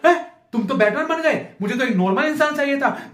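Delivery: mock a girlfriend's startled complaint; lightly voiced whiny girlfriend. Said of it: "जिस दिन साला Batman बन गया".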